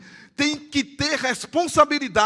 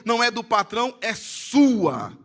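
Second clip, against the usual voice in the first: louder, hammering each item of the list; forceful preaching list; emphatic preaching; 5 dB louder than usual. Acted.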